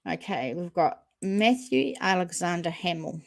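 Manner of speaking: talking while vaping; words around a vape exhale; vape in mouth. Real, not acted. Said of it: "Excuse the vape".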